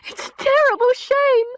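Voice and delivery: high, loud servant's voice; the maid breaking bad news, high and loud; distressed maid. A narrator's reading. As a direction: cry it out as the upset maid. Maid's lines voiced high.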